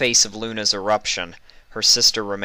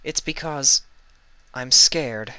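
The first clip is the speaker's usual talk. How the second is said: small, high, frightened voice; scared confession; 6 semitones higher, 3 dB louder, slower than usual. A narrator's reading. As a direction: admit the fear with a higher, trembling pitch. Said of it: "Luna confesses fear".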